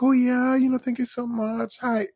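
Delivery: high, sugary influencer voice; social media voice. Retold or imitated. Influencer thanking fans in a high, sugary voice. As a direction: chirp it like a bubbly influencer. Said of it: "that social media voice".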